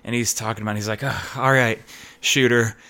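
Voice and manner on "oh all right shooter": mock out-of-breath sigh; lightly puffed, weary-sounding opener; imitated breathlessness. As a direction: imitate a winded wrestler starting to talk. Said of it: "like, out of breath".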